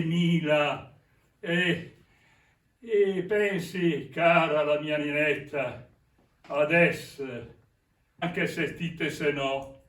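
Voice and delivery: tender Milanese song lyric, spoken; milanese accent. Acted. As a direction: recite it like a love verse. Recites the song's lyrics in dialect.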